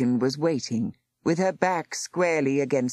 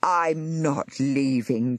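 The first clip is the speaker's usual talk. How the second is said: cried; much slower than usual. Acted. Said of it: "cried Miss Boston".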